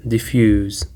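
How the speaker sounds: "Diffuse" with the weight on -FUSE; stress on second syllable. Shown as a demonstration. Teacher demonstrates where the stress falls, "Diffuse" stressed on second syllable. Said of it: "the stress is on the second syllable".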